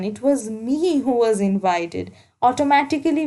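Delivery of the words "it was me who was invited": "me" gently stressed in an even line. Shown as a demonstration. Teacher giving an example of emphasis, light stress on "me". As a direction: lean lightly on "me" in "It was me who was invited". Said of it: "we are emphasizing the pronoun me, you, I".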